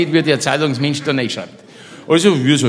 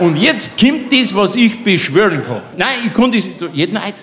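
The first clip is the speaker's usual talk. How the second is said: excited; 5 semitones higher than usual. Real, not acted. Excited build to claim.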